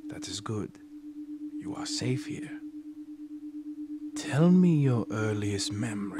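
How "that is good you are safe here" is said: soft hushed whisper. Acted. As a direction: breathe the words gently. Hypnotist soothing relaxed patient.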